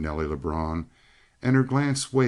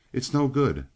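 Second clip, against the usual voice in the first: with a sigh; 7 semitones higher than usual. A narrator's reading. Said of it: "Nelly Lebrun said with a sigh".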